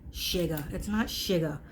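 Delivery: a quiet dig at mom's shigga; It's not sugar with the shigga vowel; mimicking mom's sugar. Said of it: "as my mother would say".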